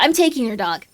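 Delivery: loud, firm claim on the dog; loud declaration. Acted. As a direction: announce you're taking the dog, loudly. Shouted repeat.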